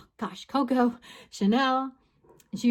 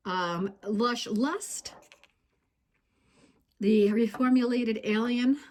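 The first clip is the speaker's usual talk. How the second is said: slightly winded; breathless between words; out of breath; slower than usual. Real, not acted. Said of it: "I'm, like, out of breath again".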